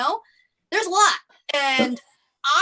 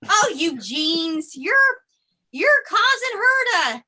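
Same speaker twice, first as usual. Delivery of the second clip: fed-up cells; 4 dB louder, slower than usual. Pretend. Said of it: "fed up with our genes and just like".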